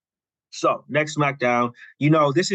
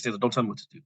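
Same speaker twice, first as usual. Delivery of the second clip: real serious; 2 semitones lower, 3 dB quieter, faster than usual. Retold or imitated. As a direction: imitate a boss warning, without raising the voice. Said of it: "Like, just real serious".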